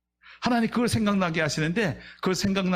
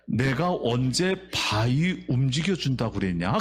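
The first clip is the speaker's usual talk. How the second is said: God's voice; 5 semitones lower, slower than usual. Acted. God answers the complainer.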